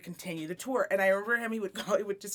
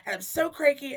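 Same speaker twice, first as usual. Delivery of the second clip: higher, mocking whine of a complaining musician; whiny mock boyfriend; 5 semitones higher than usual. Retelling her ex's payphone call, mock whiny complaint. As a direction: lightly whine it like a sulky boyfriend on tour.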